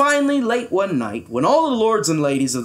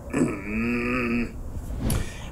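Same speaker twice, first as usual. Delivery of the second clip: soft, low grumbling growl; muted grumpy rumble; 4 semitones lower, 7 dB quieter than usual. A narrator's reading. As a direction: growl under the breath. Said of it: "he growled at that".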